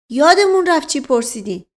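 high, loud retort; flustered servant. Acted. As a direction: protest having lost the thread. Mashqasem retorts to inspector.

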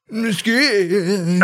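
MESQUITE with a high, drawn-out second syllable; exaggerated mesquite. Host joking about an awkward wood name, exaggerated high MESQUITE. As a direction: stretch MESQUITE up high, hammed up.

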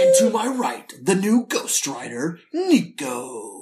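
slow, dramatic trailer announcer; a hint of a trailer narrator; movie trailer voice. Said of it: "Did you like my movie trailer voice?".

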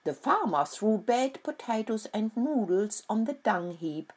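lightly voiced cackling hen. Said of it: "cackled Steffi the hen".

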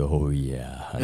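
dropping voice deep; low seductive croon, a touch; a deep-voiced singer's voice. Retold or imitated. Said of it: "the singer voice going".

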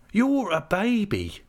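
high, slow womanly voice; fond teasing. A narrator's reading. Peggotty fondly calling him childish, high teasing voice. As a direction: tease him affectionately.

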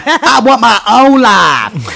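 mocking whine. Echoing the trope line mockingly.

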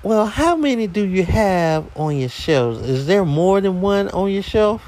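lady caller. Retold or imitated. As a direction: pitch it up as the questioning caller. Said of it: "And she goes".

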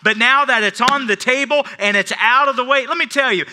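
loud, high triumphant preaching; preaching at full force. Real, not acted. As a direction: build to a victorious cry. Sermon climax.

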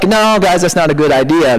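casual, gentle objection; mild no. Acted. Preacher showing what the Greek isn't, mild no. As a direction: wave it off lightly, without emphasis. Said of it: "This isn't just like".

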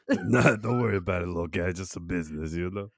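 quick, hammed-up Midwest accent, brushing it off; a breezy Midwest shrug of a line; Midwest uncle accent. Uncle brushes off kid's question in Midwest accent. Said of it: "that Midwest accent".

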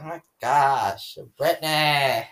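drawn-out mock Valley girl whine; Valley girl accent. Girl imitating cousin's drama, drawn-out Valley girl accent. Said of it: "My cousin's like".

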